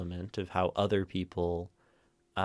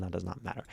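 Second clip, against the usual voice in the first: softer line weighted toward MATTER; stress on MATTER; 7 dB quieter, much faster than usual. Shown as a demonstration. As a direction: let the phrase settle on MATTER. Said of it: "emphasizing a word changes the meaning".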